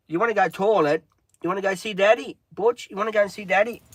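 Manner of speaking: high coaxing dog-talk. Real, not acted. Owner asking dog to go see Daddy, high coaxing. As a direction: pitch it up and coax the pet along.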